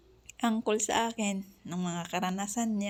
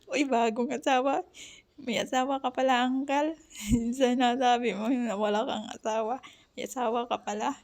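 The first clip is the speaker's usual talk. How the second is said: higher-pitched, playfully accusing retort; mock astonishment; 3 semitones higher than usual. Niece catching Uncle hiding a wife, mock astonished. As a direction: act out a scandalized reply, half laughing.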